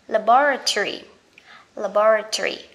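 British "Laboratory", stressed la-BO-ra-tree; British pronunciation. Shown as a demonstration. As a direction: punch BO and end "Laboratory" in tree. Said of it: "người Anh họ sẽ đọc là".

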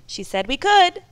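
put-on high, loud eager children; eager kids. A narrator's reading. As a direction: bubble over with excitement. Children begging their dad.

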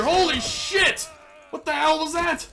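high, loud stunned yell; real shock, loud and drawn out; shocked shout. Real, not acted. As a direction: shout in disbelief at the hit. Rhino attack hits.

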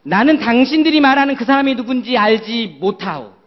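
Peter's loud, emphatic denial; role-play Peter. Pretend. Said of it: "베드로예요".

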